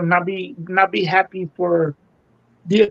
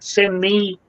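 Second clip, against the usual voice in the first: sarcastic. Acted. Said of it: "I'm just being sarcastic here".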